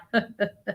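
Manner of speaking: a quiet, soft imitated laugh; man's laugh. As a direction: echo his laugh lightly under the breath. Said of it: "he stood there and he laughed like".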